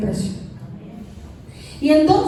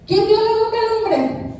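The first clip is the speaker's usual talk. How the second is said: emphatic repeat; 6 semitones higher than usual. Shown as a demonstration. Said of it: "¿Qué hubo?".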